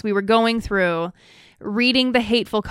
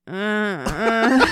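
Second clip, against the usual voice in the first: mock crying. Real, not acted. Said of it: "when you can hear her going".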